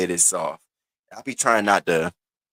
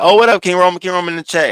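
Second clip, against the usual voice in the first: imitated excited greeting, pitched high; Ness; 8 semitones higher, 4 dB louder, much faster than usual. Imitating a streamer greeting someone in the chat, excited. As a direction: hail a new arrival, high and lifted. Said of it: "Ness is like".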